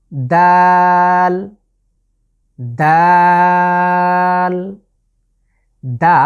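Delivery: দাল drawn out and loud; long Arabic dal. Shown as a demonstration. Teacher shows viewers the letter dal, drawn out. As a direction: hold দাল for three counts. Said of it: "তিন আলিফ long করে পড়ব".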